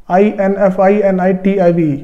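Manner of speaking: slow letter-by-letter spelling. Shown as a demonstration. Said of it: "इन्फिनेटिव". (अक्षर-अक्षर धीरे बोलना)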